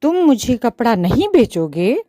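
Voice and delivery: loud, indignant outburst; the mouse angrily confronting the shopkeeper; angry mouse. Acted. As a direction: raise your voice in anger. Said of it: "चूहा गुस्से में बोला".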